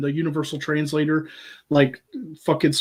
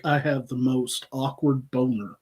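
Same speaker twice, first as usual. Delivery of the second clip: redneck captain; 2 semitones lower than usual. Acted. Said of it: "the redneck captain would".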